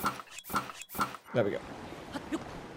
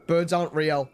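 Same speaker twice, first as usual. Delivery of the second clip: mock conspiracy theorist; 2 semitones higher than usual. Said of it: "Some of them are so bad".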